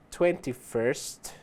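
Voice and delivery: Twenty-first said very slowly; slow demo. Shown as a demonstration. Teacher slowly modelling twenty-first for students. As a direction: draw twenty-first out for learners. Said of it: "Sempre no final o som do th".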